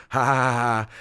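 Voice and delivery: mock spoken laugh; imitated laughing. Teacher laughs as he walks in, mock laughter. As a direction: imitate a colleague's laughter in separate ha's. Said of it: "the teacher's laughing".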